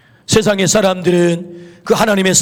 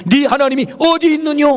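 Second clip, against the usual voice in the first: higher-pitched retold taunt; mocking; 7 semitones higher than usual. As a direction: imitate scoffers challenging a believer. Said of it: "조롱하잖아요".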